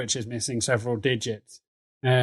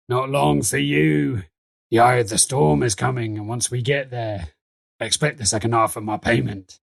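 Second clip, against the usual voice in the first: ominous character warning. Acted. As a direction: deliver a portent in character. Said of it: "and is like".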